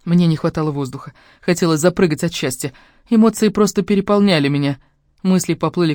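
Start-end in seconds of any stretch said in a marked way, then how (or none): none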